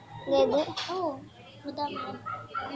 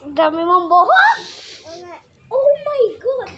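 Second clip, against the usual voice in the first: excited exclamation; 8 dB louder than usual. Real, not acted. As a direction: exclaim in delight. Amazed at the pet's fur.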